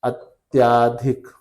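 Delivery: slowly stretched अत्याधिक with long आ; अत्याधिक drawn out, the wrong form; wrong spelling said. Shown as a demonstration. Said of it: "अत्याधिक सही है कि गलत है".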